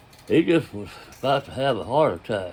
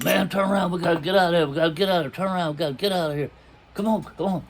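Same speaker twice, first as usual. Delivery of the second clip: acting out an urgent, higher-pitched plea; suddenly panicked friend; 5 semitones higher, much faster than usual. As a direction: imitate a friend frantically wanting out. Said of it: "all of a sudden went crazy".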